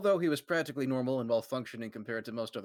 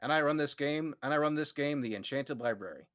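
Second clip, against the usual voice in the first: light Gage voice; 3 semitones higher than usual. Acted. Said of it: "I'll be Gage".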